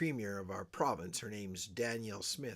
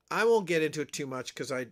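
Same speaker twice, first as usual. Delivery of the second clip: laughing; 3 semitones higher, 9 dB louder, faster than usual. Real, not acted. Laughing repeat of earlier line.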